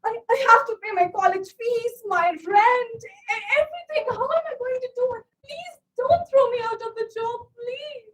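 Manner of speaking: tearful, begging not to be fired; desperate pleading. Acted. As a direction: plead with rising panic. Begging boss not to fire.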